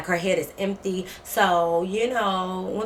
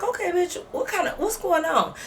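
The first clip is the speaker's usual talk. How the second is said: annoyed; 9 semitones higher than usual. Retold or imitated. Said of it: "I'm like".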